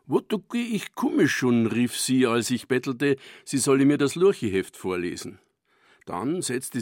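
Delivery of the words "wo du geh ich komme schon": put-on a higher, Silesian-accented granny call; grandmother's Silesian. Grandmother calls to begging child, in Silesian dialect. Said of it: "der schlesische meiner Großmutter Helene".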